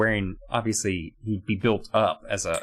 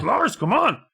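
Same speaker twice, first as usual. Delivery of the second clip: whiny high plea; 4 dB louder, slower than usual. Retold or imitated. Kid begging brother to get up.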